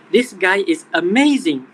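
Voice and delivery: a touch of excitement on amazing; mild excited quote. Retold or imitated. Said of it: "he sounded very excited".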